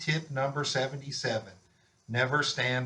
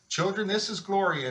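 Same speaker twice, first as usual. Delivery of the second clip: raised announcing voice for the class; 6 semitones higher than usual. A narrator's reading. Officer introducing his dog to children, announcing. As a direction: call the children to attention. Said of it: "announced Officer Buckle".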